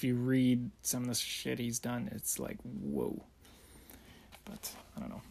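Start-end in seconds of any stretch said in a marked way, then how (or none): 2.1-3.2 shocked. Real, not acted. Shocked reaction to reading. 4.5-5.2 whispered. Real, not acted. Trailing, unsure.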